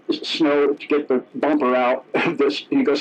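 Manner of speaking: ordinary delivery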